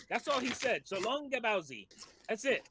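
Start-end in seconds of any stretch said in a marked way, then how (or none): 0.9-1.7 put-on Mario accent. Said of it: "because of Mario's accent".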